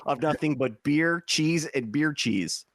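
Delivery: comic put-on Wisconsin accent; mock Wisconsin twang. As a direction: play a beer-and-cheese Wisconsin local. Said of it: "Oh, the Wisconsin accent".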